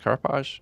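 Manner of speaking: Carapace as a questioning "cara-posh?"; unsure pronunciation. Shown as a demonstration. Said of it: "I'm not sure how it's pronounced".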